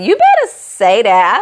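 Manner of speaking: sassy warning. Retold or imitated. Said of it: "And I was like".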